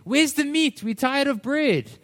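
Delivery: high-pitched mock whining; grumbling, moaning. Preacher voices Israelites tired of bread, mock grumbling. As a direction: imitate fed-up grumblers. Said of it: "they're grumbling and they're moaning".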